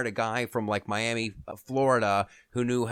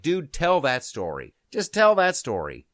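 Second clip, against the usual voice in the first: urging; 3 semitones higher, 5 dB louder than usual. Retold or imitated. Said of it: "And I'm like".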